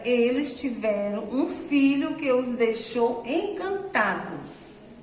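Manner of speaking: slow, storytelling voice for the class; story reading. Shown as a demonstration. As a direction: read the tale aloud slowly to the children. Teacher continues reading story.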